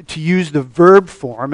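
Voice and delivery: "verb" hit clearly in "the verb form"; stress on verb. Shown as a demonstration. Preacher to church, stressing the verb form. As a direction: punch the word "verb". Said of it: "I stress the verb form".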